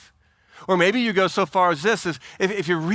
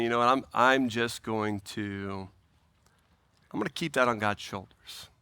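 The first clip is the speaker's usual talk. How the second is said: calm resolve; 7 semitones lower, 6 dB quieter than usual. Acted. Believer handing a worry to God, calm and soft. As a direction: quietly let it go.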